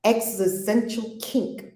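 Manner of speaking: slow title read; book title. Shown as a demonstration. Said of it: "Here's the book".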